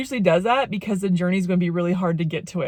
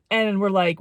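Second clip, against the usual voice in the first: normal talking voice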